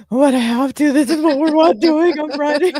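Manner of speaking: half-laughing plea, high and loud; mock protest. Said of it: "I'm sitting there going".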